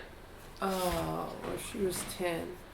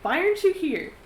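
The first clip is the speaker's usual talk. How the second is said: higher, lightly voiced plea; a hint of pleading girl; 10 semitones higher, 4 dB louder than usual. Girl asks absent friend why not here, light plea. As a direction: call out plaintively as the girl. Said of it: "her being like".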